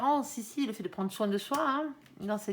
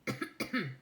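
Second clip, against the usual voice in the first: coughing; 3 semitones lower, 5 dB quieter than usual. Real, not acted. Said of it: "je m'étouffe".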